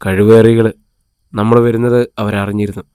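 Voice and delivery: a touch of anger through clenched teeth; mildly angry curse at the enemies; through gritted teeth. Acted. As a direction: bite the curse off, held back. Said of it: "Karnan പല്ലുകൾ കടിച്ചു പിടിച്ചു".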